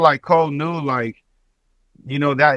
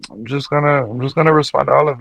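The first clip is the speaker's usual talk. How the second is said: mock Canadian accent, quick; hammy Toronto accent impression. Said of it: "with the Canadian accent".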